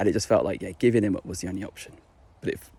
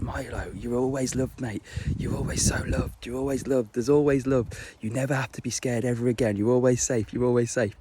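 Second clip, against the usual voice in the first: soft, gentle comfort to a scared dog; a softer, tender promise of safety; tender reassurance; 4 dB quieter than usual. Retold or imitated. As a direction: soothe him with a hug.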